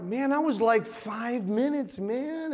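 lightly voiced drugged drawl, words stretched; acted out of it. Dazed patient told the procedure is done, woozy amazement. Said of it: "I was wild and out of it".

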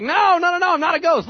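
high, loud hurried no's; frantic reassurance. Retold or imitated. Jesus urgently reassures the panicked disciples, high and loud. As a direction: wave off their panic urgently. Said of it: "He's like".

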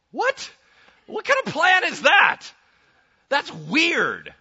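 loud, high-pitched disbelief; hammed-up astonished protest; mock incredulous. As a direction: blurt it out in exaggerated bafflement. Acted disbelief at God's plan.

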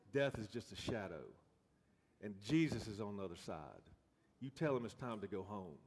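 a mild hint of a raspy elder's sermon, fading to a hush; Ruby preaching raspy. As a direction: rasp it lightly like an old preacher woman, then soften. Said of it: "her voice would get real raspy".

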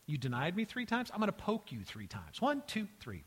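mock needling with jumpy pitch; passive-aggressive. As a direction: count out each jab like payback. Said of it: "Is this Jesus being passive-aggressive?".

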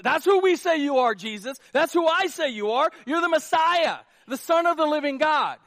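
preacher booming out Peter's confession; bold proclamation. Acted. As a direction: proclaim it to the whole room. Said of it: "preacher proclaiming the confession".

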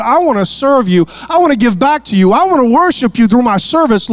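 mock frustrated hostess complaining about her sister; flustered Martha pleading. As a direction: play the overworked sister begging for help. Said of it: "and she says".

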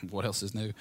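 soft, low aside; unspoken retort. Retold or imitated. Son silently answering his dad on the phone, muted unspoken retort. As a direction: drop it under the breath like a private thought. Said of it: "I didn't say that out loud".

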